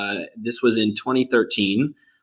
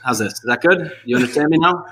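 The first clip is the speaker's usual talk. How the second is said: switched into a clear American accent; 5 semitones higher than usual. Shown as a demonstration. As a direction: check you are understood in an American accent. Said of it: "like, an American accent".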